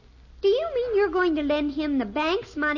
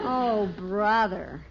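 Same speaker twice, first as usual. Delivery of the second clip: exasperated; 7 semitones lower, much slower than usual. Acted. Daughter reacts to silly offer.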